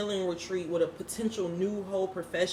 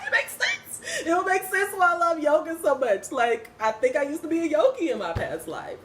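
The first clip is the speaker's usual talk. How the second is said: much higher, laughing with delight; giddy, high laughing realization; excited laughing; 8 semitones higher than usual. Retold or imitated. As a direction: squeal it out as it clicks. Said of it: "And I'm like".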